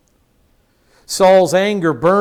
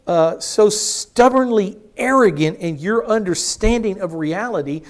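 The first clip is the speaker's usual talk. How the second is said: indignant rebuke; 3 semitones higher than usual. Acted. Jonathan confronts his father Saul, indignant and raised. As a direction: call out a stubborn father.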